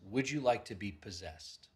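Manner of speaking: soft, casual asking of "Would you like to be possessed?"; offhand quiet question; plain ask. Shown as a demonstration. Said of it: "just like this".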